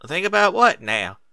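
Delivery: put-on startled old grandmother just woken; old granny voice. Granny Smith waking from a nap, lightly voiced old mare.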